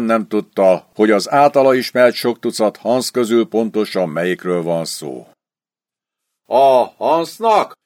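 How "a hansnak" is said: slow, puzzled, lightly voiced; dim-witted question. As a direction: sergeant asks slowly and dimly, lightly voiced. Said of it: "kérdezte bárgyúképpel".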